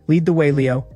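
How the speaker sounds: steady, level order "Lead the way, Leo"; calm command. Acted. The new boss coolly orders Leo to lead the way.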